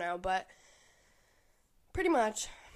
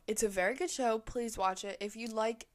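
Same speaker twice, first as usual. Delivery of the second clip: ordinary delivery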